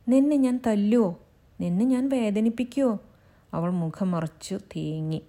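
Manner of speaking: gentle, fond teasing; lightly voiced affectionate husband; tender husband. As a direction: comfort her lovingly. Husband comforts crying wife.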